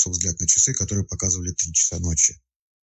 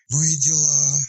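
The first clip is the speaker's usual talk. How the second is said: drawn out; 7 semitones higher, slower than usual. A narrator's reading. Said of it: "протянула женщина".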